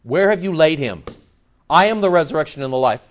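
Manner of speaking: firm demand hurrying into a rebuke; harsh, indignant. Acted. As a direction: confront them with mild, controlled indignation. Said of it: "harsh with them".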